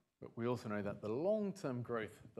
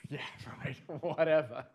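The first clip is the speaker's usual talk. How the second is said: sceptical scoff; 8 dB louder than usual. Acted. Acting a sceptical listener.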